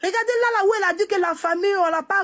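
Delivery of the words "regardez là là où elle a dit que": crying, pitch high and strained; tearful. Real, not acted. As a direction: plead through tears. Tearful plea defending the widow.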